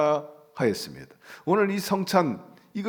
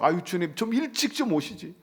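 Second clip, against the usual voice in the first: wailing reproach; 3 semitones higher than usual. Acted. Sisters reproaching the Lord for coming late, plaintive mock wail. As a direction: lament in a raised, pleading pitch. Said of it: "울부짖으면서".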